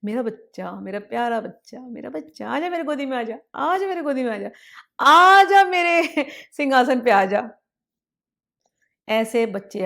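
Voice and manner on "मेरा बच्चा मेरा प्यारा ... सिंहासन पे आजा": put-on mother welcoming the child onto her throne; tender mother. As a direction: lovingly call the child into your lap. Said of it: "अब माँ बोलती".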